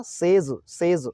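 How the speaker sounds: सेज as sez, very drawn out; slow सेज ending in a buzzing z; correct says pronunciation. Shown as a demonstration. Teacher drilling the right ending, very slow sez for सेज. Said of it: "तो सेज होगा".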